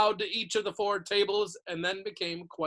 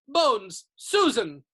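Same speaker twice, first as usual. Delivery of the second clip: calling out names; 5 semitones higher, 10 dB louder, much slower than usual. A narrator's reading.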